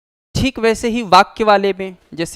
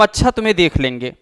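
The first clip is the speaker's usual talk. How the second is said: mock threat; faster than usual. Shown as a demonstration. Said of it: "ये प्रतिशोध दर्शाता है".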